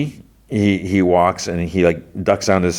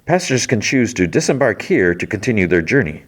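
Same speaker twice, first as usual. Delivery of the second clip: higher-pitched mock train announcer; PA announcement; 5 semitones higher than usual. Lady worker addressing passengers over the PA, higher announcer voice. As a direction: imitate a public address announcement. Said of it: "talks to the P A".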